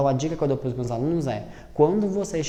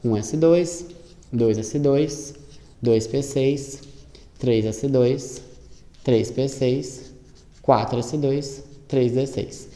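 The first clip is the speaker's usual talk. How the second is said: ditado pausado; slower than usual. Shown as a demonstration. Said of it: "é você dar na ordem que você distribuiu".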